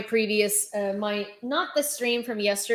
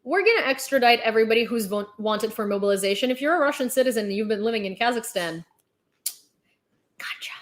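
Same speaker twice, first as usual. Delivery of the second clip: mock sly cheerfulness; faster than usual. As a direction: chirp it out like a sneaky bureaucrat springing a trap. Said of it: "They're like".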